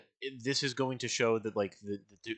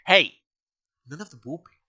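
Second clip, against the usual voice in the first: loud, high rapid no-no-no; frantic denial; 6 semitones higher, 7 dB louder than usual. Retold or imitated. Captain shouting down the whooping crew, loud and high. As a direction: shout him down in a pitched-up panic. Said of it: "and he's like".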